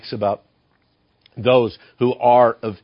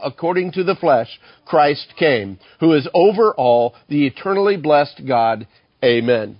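raised, solemn Bible reading; scripture reading. Acted. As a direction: read the passage out to the church with weight. Reads Romans 9 aloud.

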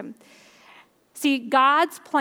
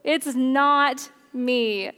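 pleading to the Lord; slower than usual. Retold or imitated. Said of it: "people who are like".

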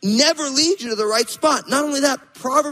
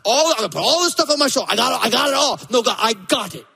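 mock overloaded believer; faster than usual. Acting overloaded stubborn person.

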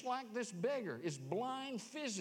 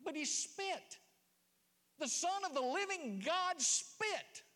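fervent preaching; 10 semitones higher, 3 dB louder than usual. Acted. Preaching climax on Jesus spitting.

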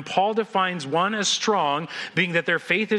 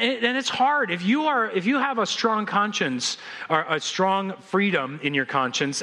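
ordinary talk

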